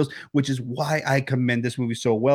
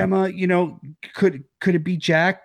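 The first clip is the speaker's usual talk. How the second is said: higher, gently coaxing voice; imitated sweetness; 5 semitones higher than usual. Medium kindly asking Gemma about Jack, sweet. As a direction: put on a sweet, tentative question. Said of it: "'cause she's being sweet".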